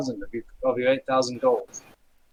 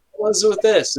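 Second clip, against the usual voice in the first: challenging guard; 8 semitones higher, 5 dB louder, slower than usual. Acted. Gate guard challenges the visitors.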